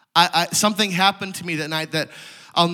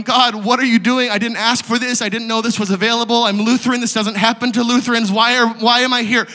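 higher, urgent mock-bewildered protest; spouting off questions; 5 semitones higher, 4 dB louder than usual. Lutheran boy questioning God, retold bewildered spouting. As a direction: fire off objections in a raised pitch. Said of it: "I just was spouting off all of these questions".

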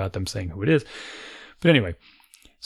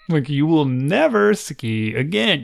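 mock threat; 5 semitones higher, slower than usual. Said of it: "these absurd threats".

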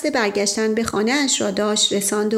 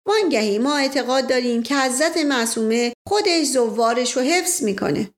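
put-on Indian-accented Persian; 3 semitones higher than usual. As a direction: play the polite Indian sardar, a touch of Indian accent. Narrator voices the Indian man.

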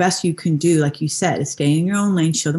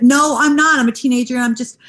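put-on teen son; 4 semitones higher than usual. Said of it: "he's like".

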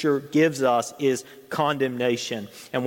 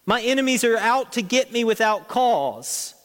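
David pleading with God, pitched higher; preacher voicing David's prayer to God, pleading; voicing David's plea; 8 semitones higher than usual. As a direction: plead earnestly as David praying. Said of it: "he's saying".

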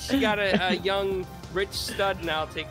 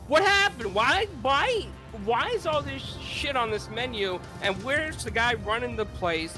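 higher-pitched, indignant mom questions; pestering, raised-pitch mock mom; loud blurting mom; 4 semitones higher than usual. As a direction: imitate a mom blurting out complaints. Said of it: "my mom says really loud".

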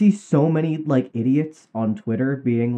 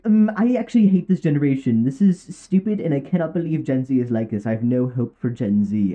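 a hint of a sneering complainer; mock Twitter boomer. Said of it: "will be like".

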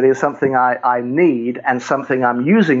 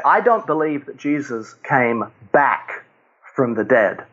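"back" set apart with a pause after it; stress on "back". Shown as a demonstration. Speaker puzzling his listeners, leaning on "back" as key word. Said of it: "the key word there is back".

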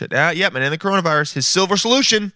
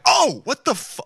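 higher, shocked yelp at the mirror; startled outburst; 11 semitones higher than usual. Pretend. Host imagines finding the pillow guy in his mirror, startled. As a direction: caught off guard, mock. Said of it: "I'd be like".

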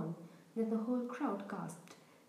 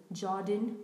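growled warning; 2 semitones lower, 4 dB louder than usual. Acted. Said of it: "growled Professor McGonagall".

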